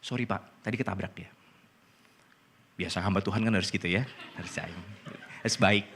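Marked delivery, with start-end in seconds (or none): 0.1-1.3 soft, low-voiced apology; quietly retold apology. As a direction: say sorry softly, keeping the pitch down. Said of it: "Gue minta maaf".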